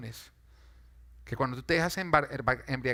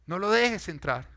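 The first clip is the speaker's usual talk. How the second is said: slow, louder, pressing each word; emphatic warning; 5 semitones higher, 6 dB louder, slower than usual. Real, not acted. Preacher warning the congregation, firm and slow. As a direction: warn them firmly not to open the door.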